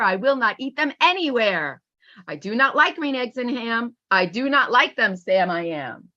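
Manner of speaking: lively storybook reading, bouncing between the two characters; read-aloud voice. Acted. Teacher reading a Seuss book aloud, lively storybook voice. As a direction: read it out like a picture book to a class.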